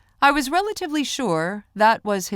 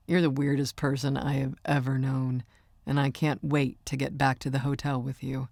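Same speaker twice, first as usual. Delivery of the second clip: hushed, slightly lowered voice for Micah; lightly voiced boyfriend; 3 semitones lower, 3 dB quieter than usual. Singer teasing his girlfriend, lightly voiced and low-key. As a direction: lightly play the amused boyfriend.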